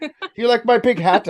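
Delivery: high mock British toff voice; bad British accent. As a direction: ham up a posh Brit asking about his hat. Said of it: "I don't know how to do a fucking accent".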